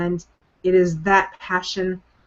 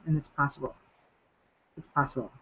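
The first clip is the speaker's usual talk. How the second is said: soft reassurance; 3 semitones lower, 8 dB quieter, faster than usual. Real, not acted. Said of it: "soft repeated encouragement".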